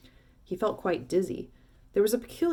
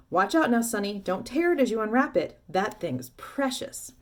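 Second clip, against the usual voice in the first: eager warning; 3 semitones higher than usual. Acted. Shopkeeper warns Charlie.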